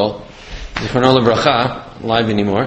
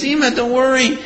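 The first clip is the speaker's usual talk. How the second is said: high-pitched, earnest reassurance, retold; lightly acted, high-voiced comforting; calming son; 10 semitones higher than usual. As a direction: reassure an upset mother as her child would. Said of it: "tries to calm his mother down".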